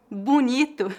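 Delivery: bonito said as "bunito"; slow, careful bonito opening on "bu". Shown as a demonstration. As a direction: turn the first vowel of bonito into "u". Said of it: "exemplos de variações de sotaque".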